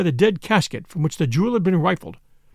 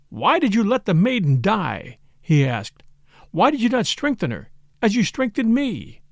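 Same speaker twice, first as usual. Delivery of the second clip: mildly raised, accusing questions; reproachful questioning; 3 semitones higher than usual. Acted. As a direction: press him with pained reproach. Accusing priest with mad joy.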